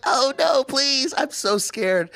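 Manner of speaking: high, loud mocking whimper; mock fear. The imagined cook mocks the timid customer, high sarcastic whimper. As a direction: taunt him with fake fear. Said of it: "she's like".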